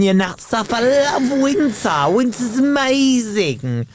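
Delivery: dripping sarcasm; sarcastic. Real, not acted. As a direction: praise winter while hating it. Sarcastic praise of winter.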